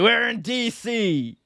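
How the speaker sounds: slow, drawn-out announcer voice; mock promoter boast. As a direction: announce it proudly, stretching it.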